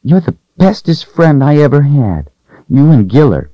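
put-on a frightened young servant girl, hushed and hoping. Voices young Rachel in story.

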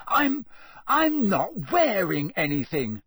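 high, loud, spluttering outrage; outraged. Acted. Naked boy protests to ghost in bathroom, outraged. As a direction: protest loudly, scandalised and stumbling. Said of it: "Harry said in outrage".

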